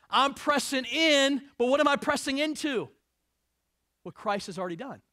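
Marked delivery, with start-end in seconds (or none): 0.1-2.9 fervent preaching. Real, not acted. Preacher climaxing, raised voice.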